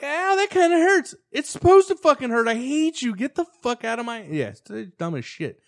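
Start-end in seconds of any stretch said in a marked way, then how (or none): 0.0-1.1 very high mock whine of pain; imitated girl. Girl complains after being hit, high mock ouch. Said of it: "She's still like". 1.3-4.2 high-pitched exasperated retort; angry. Retold or imitated. Teen answers the girl he wants gone, exasperated.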